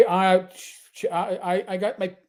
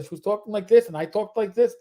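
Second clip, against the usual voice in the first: put-on slipping into a Yiddish accent. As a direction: imitate a Yiddish-accented shopper. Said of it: "I slipped into a Yiddish one time".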